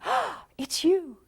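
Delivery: slow, high delighted greeting; light up at them; thrilled early-love greeting. Retold or imitated. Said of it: "in the beginning".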